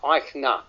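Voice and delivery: Eichner said as EYEK-ner; EYEK-ner, an n opening the last syllable of Eichner; pronounced with N. Shown as a demonstration. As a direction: sound the N clearly in Eichner. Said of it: "with an N".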